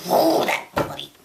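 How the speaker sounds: usual speaking voice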